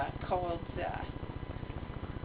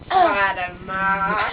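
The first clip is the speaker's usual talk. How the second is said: put-on East Coast accent; 4 dB louder than usual. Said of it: "that East Coast accent".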